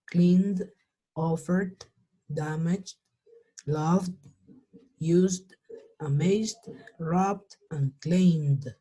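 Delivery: word list from "cleaned" to "claimed", E silent and D on the end; careful model list, "cleaned" to "claimed", one word at a time; D endings. Shown as a demonstration. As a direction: say "cleaned", "loved", "claimed" without an extra syllable, closing on D. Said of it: "Terminan en una D".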